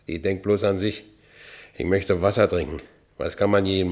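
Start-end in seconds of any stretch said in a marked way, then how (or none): none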